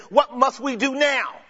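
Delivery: desperate crowd question; urgent plea. Retold or imitated. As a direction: press for an answer right now. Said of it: "They're saying".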